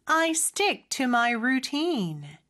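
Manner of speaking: slow, careful model sentence for learners to repeat; unhurried teaching demo with long vowels in "routine"; slow practice model. Shown as a demonstration. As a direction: take the sentence slowly, lengthening "routine". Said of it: "같이 한번 연습해볼까요?".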